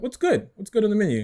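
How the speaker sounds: high, eager mock customer asking; teasing impression of a friend at a restaurant. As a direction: squeak it out like a clueless diner. Mocking friend's restaurant question.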